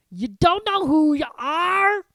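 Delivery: very slow, loud, high disbelief; dawning disbelief; bewildered Hagrid. Acted. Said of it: "he said finally".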